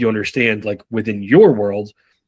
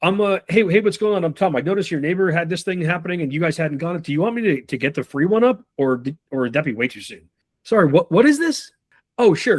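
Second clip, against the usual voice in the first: friendly rep; 4 semitones higher than usual. Retold or imitated. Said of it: "change that by being like".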